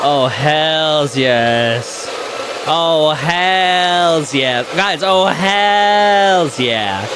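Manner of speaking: very slow drawn-out hells yeah; Sonny catchphrase. Retold or imitated. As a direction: stretch hells yeah out lazily. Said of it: "what is modern day Sonny".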